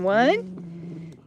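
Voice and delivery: building count. Real, not acted. Counting dog into jump.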